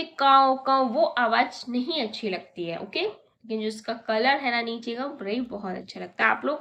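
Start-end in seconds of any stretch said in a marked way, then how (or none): 0.0-0.8 crow call imitation. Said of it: "जो उसकी आवाज़ कैसी थी".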